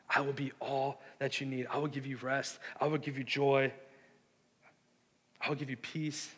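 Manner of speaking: gently voiced promises; tender groom.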